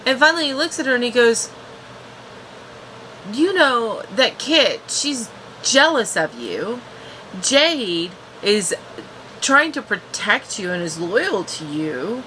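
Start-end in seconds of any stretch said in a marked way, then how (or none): 3.3-12.2 slower, sincere hint of the prince; earnest and slow. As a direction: say it gently, taking your time. Voicing Grayson's earnest talk.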